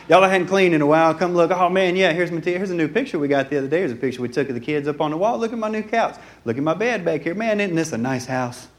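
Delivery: quick, chatty host giving a house tour; lightly acted proud homeowner; showing off. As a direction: hurry guests from thing to thing. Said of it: "We like to show off our stuff".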